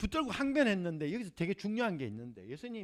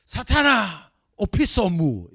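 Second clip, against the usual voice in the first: loud commanding rebuke; Jesus rebuking Satan, loud; stern rebuke; 2 semitones higher, 11 dB louder, much slower than usual. Acted. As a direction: drive Satan away with force. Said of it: "예수님 말씀하시기를".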